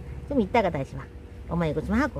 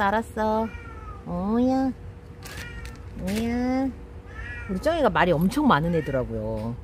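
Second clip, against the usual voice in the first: ordinary delivery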